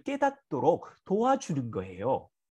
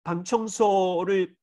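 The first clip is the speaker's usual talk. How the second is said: kind request. Retold or imitated. Father kindly asks his son to clean his room, gently. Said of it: "친절하게 이야기했거든요".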